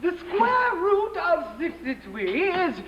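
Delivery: imitating teacher. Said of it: "imitated him ... talked with a lisp".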